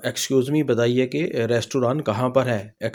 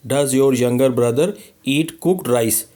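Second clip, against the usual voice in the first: slow model reading; 4 dB louder, much slower than usual. Shown as a demonstration. Teacher models English very slowly.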